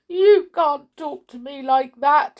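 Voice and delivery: high, loud tearful protest; mildly hammed-up sobbing indignation. A narrator's reading. King protests at being bossed, mock sobbing. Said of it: "sobbed the king".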